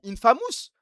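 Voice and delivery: "Infamous" said the French way, "in-fa-mousse"; French pronunciation. Shown as a demonstration. Streamer mimics how chat says it, French-sounding "Infamous". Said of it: "Vous dites comment?".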